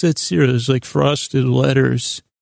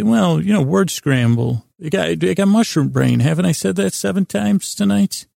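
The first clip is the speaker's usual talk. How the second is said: playful excuse; 5 semitones higher than usual. Retold or imitated. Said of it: "And I say".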